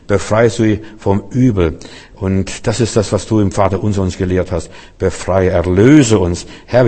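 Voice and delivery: a preacher sinks into a hushed blessing prayer; closing prayer. Acted. Closing prayer over the congregation.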